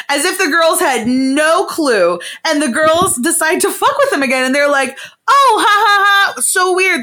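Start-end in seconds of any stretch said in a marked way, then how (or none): 5.3-7.0 higher, louder fake giggle; mock innocent laugh. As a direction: laugh it off like you're covering something.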